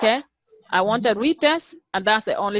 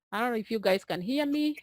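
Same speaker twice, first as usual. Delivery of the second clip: slight vibrating tremble in the voice; shaky vibrating voice; 7 dB quieter, faster than usual. Real, not acted. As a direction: voice trembling a little. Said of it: "I hear my voice vibrating".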